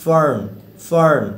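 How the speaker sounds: "ফার্ন" with an r-coloured "ur"; r-coloured vowel. Shown as a demonstration. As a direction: model "ফার্ন" as English "fern". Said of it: "এই যে রফলা টাইপের উচ্চারণ".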